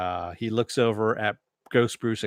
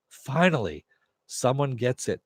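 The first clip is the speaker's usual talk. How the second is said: higher-pitched, emphatic "at last" reaction; exasperated relief; 3 semitones higher than usual. Retold or imitated. Viewer reacting to the hero dropping bad advice, exasperated relief. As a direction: say it as if long overdue.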